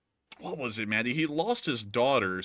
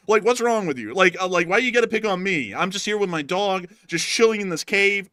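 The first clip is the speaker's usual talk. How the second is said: much higher and louder, a whiny indignant rant; outraged Grinch; 7 semitones higher, 6 dB louder than usual. Pretend. Playing the picked-on Grinch, high and loud outrage. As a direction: rant like a bullied Grinch who has had enough. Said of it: "I'd be like".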